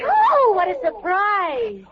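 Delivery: slow, sly fake surprise; mock surprise. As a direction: pretend to be astonished. Feigned surprise at rigged weight.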